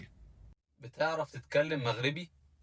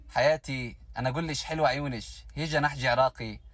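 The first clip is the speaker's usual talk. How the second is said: mock Iraqi accent; slower than usual. Shown as a demonstration. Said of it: "هتبدل أي حرف كاف بحرف الجيم".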